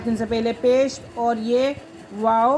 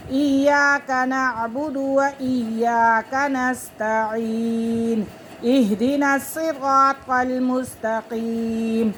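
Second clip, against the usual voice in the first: measured, melodic recitation of the Fatiha; Quran recitation; 2 semitones higher, much slower than usual. Shown as a demonstration. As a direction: recite it through in full tajweed. (تجوید کے ساتھ مکمل تلاوت)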